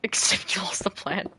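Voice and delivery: breathy teasing whisper; laughing whisper. Real, not acted. Teasing whisper after the quote.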